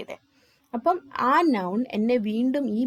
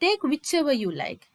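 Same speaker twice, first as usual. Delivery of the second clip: slow example read; 5 semitones higher, much slower than usual. Shown as a demonstration. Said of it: "ഇപ്പൊ ഞാൻ മറ്റൊരാളിനോട് പറയുന്നു".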